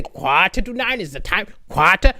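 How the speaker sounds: schoolkid mimicking a teacher's Sri Lankan accent; mock Sri Lankan accent, open "ah" in QUARTER. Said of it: "So we'd always say".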